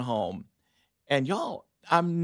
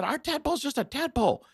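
high insistent reply; 12 semitones higher than usual. Retold or imitated. Insisting to the teacher.

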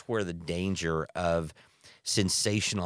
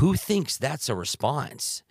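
incredulous; 7 semitones higher, 5 dB louder, slower than usual. Real, not acted. Incredulous at producer's excuse.

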